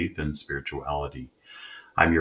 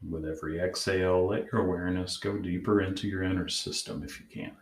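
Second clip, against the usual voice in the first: calm, measured meditation guide; guided meditation; 2 semitones higher than usual. Acted. Host leading listeners to check in with their inner parts, guided meditation. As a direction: gently guide them inward, leaving long pauses.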